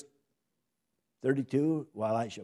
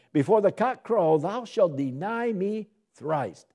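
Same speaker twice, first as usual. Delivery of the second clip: higher, slow, solemn prophecy; Jesus' warning; 8 semitones higher, 6 dB louder than usual. Acted. Preacher voicing Jesus foretelling Peter's denial. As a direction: ring out the warning slowly.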